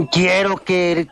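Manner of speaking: lightly voiced demon stretching every word; a hint of a possessed child, slow and eerie; imitating a demonic child. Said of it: "de la forma más demoníaca".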